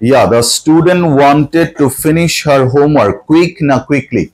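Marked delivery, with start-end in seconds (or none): 0.3-3.2 very slow, careful classroom reading; slow dictation. Shown as a demonstration. Teacher reading the worksheet instruction to students, slowly. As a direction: spell it out slowly for the pupils.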